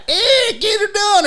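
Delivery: high, slow hick catchphrase; mock Southern comic voice; Larry the Cable Guy catchphrase. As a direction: drawl it like a redneck comic. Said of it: "And then they're like".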